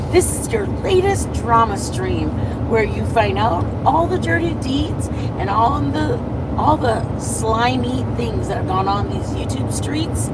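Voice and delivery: booming show host intro; announcer voice. Shown as a demonstration. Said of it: "I sound like a, like a, a, a announcer".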